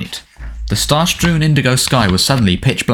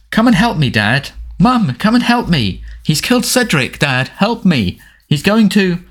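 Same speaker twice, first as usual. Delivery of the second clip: high, shrieky mock pleading; whimpering mockery; 9 semitones higher than usual. A narrator's reading. Dudley acting out his cousin's nightmare, high mocking whimper. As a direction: wail for help in a fake panicked squeal. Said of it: "whimpering voice".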